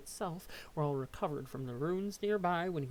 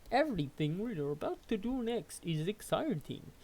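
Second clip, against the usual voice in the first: odd formal robot-like voice; stiff, over-enunciated troll; strange troll voice. Acted. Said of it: "I do not know what voice that is".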